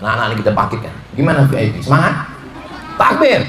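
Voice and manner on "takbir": calling out takbir. Real, not acted.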